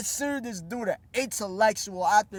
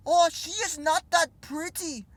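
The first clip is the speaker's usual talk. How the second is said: mocking Jordan Peterson; 4 semitones higher, 4 dB quieter than usual. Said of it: "him saying".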